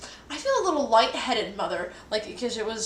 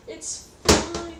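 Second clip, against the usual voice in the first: higher, louder insisting reassurance; 8 semitones higher, 6 dB louder than usual. Retold or imitated. Telling panicked mom not to worry, higher insisting. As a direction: insist to mom it's fine. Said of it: "I'm like".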